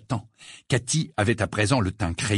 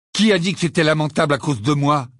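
sèchement; 4 semitones higher, 5 dB louder than usual. A narrator's reading. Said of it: "répliqua sèchement".

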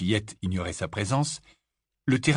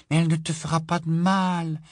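reassuring; 8 semitones higher, 3 dB louder than usual. Acted. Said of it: "assura Lily".

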